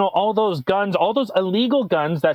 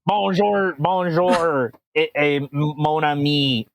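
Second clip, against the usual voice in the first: mock French accent; 3 semitones lower, slower than usual. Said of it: "He's a French Mexican".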